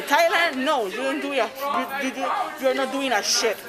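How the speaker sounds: mock shouted retort; retold screaming. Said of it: "she came over here screaming at me".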